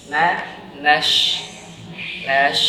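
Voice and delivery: "nash" ending in a clear sh sound; clear shin. Shown as a demonstration. Teacher drilling the shin sound for the student. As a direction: finish "nash" with a crisp sh. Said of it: "Ini huruf shin ya".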